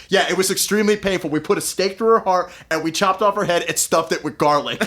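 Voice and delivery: matter-of-fact. Retold or imitated. Doctor answering over dinner how Lucy died, matter-of-fact. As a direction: rattle off the grisly details matter-of-factly. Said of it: "he says it so matter-of-factly".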